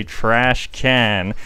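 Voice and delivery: badly faked American accent. Shown as a demonstration. Vlogger answering a viewer's request, horrible American accent. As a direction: attempt an American accent, clumsily. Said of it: "that is a horrible accent".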